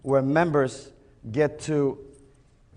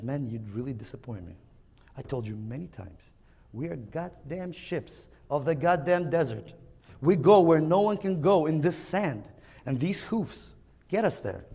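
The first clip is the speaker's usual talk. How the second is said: weary father camel; 5 dB quieter than usual. Acted. Father camel scolds again.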